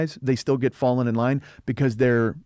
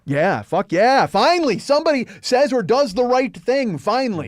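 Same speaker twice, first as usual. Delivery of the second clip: cheering brother; 9 semitones higher, 4 dB louder than usual. Retold or imitated. Brother cheering at the screen, excited and loud. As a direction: whoop it out like a fan. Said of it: "It was just like".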